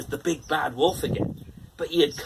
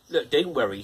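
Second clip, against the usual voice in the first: reassuring; 5 dB louder than usual. Acted. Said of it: "said the little pig to his two frightened little brothers".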